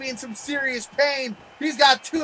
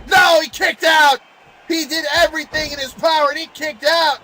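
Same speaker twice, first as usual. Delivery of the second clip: excited; 2 semitones higher than usual. Real, not acted. Surprise kick-out.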